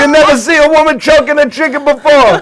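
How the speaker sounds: high, hammed-up Italian accent. Host feeds comedian a chicken line, Italian accent. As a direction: challenge onlookers in mock Italian. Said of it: "I just did it in an Italian accent".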